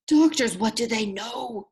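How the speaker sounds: loud, scornful growl; captain's loud, scornful growl. Acted. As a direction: scoff at doctors with a snarl. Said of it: "he growled".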